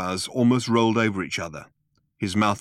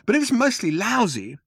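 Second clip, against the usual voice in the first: higher, measured lead-in; slow, deliberate; 12 semitones higher than usual. A narrator's reading. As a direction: give the words time to land. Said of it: "he said slowly".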